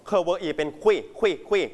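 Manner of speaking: "เค เวอร์ อี" as separate sounds, blended into "คุย"; sounding out syllables. Shown as a demonstration. Teacher drilling the first syllable of cuisine, "เค เวอร์ อี" blended into "คุย". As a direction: build "คุย" from "เค เวอร์ อี", then repeat it crisply. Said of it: "คำนี้ออกเสียงว่า".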